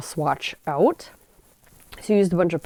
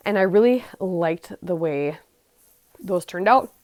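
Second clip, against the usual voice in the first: hiccups; 2 semitones higher than usual. Real, not acted. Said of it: "got the hiccups".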